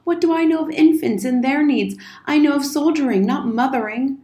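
lightly voiced flustered military guardian; defensive old soldier, pleading. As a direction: justify yourself with mounting agitation. Old soldier pleads his case.

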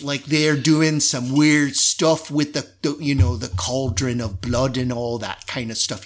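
light Cockney pirate banter; Cockney drow. Acted. Drow guard gossiping about the ritual below, in light Cockney. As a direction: chat idly with a hint of Cockney. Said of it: "this kind of Cockney accent".

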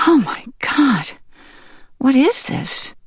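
high-pitched, horrified disbelief; alarmed hen. Acted. Hen finds herself in a grave, alarmed. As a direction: voice a hen's dawning alarm, high. Hen discovers pile of dead hens.

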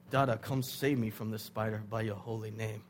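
low, measured mock-formal plea; mock eloquent prayer. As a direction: recite it like an over-formal prayer. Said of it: "they don't think about being eloquent".

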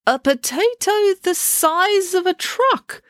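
put-on high, slow, puzzled old man's voice; deaf old doctor. Scene: deaf doctor repeating Dad's words, slow and baffled. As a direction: repeat it as if you barely heard. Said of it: "very deaf".

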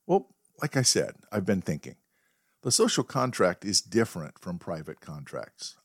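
only a touch of a firm dog voice; calm menace, barely voiced; quiet but firm. Dog with the rifle lecturing his owner, lightly voiced quiet firmness. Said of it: "in a quiet but firm voice".

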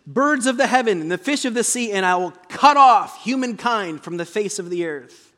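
voice of God. Acted. Pastor reading God's threat to his congregation, proclaiming loudly. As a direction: boom it out like God pronouncing doom. Preacher rereads God's decree.

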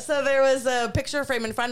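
laughing. Real, not acted. Laughing after the scare.

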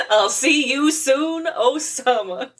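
mock Homer farewell. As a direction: drag it out like a doting pen pal. Mock Homer letter sign-off.

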